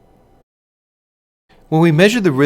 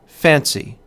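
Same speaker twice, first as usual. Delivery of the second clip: "fancy" stressed on the first syllable; trochaic stress. Shown as a demonstration. Lecturer giving an example of trochaic rhythm, "fancy" stressed on "fan". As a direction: say "fancy" strong then weak. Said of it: "hear the rhythm of the trochee".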